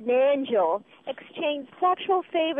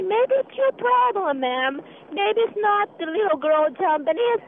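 heated accusation; 4 semitones higher, slower than usual. Real, not acted. Caller accusing the guest, heated.

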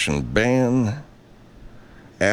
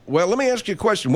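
much higher, fast, heated; angry challenge; 10 semitones higher, faster than usual. Real, not acted. Host confronts the armed protesters, heated and fast. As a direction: fire the question at them.

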